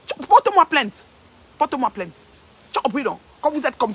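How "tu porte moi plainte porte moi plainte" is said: loud, high and slow taunt; defiant dare. Real, not acted. Live host daring a rival to sue, loud. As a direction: dare her to sue you.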